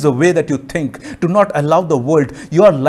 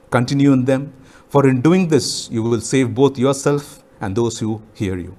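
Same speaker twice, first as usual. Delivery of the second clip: measured reading, pausing between phrases; scripture reading. Real, not acted. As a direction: read the verses solemnly, letting each phrase fall at its end. Reads a Bible passage aloud.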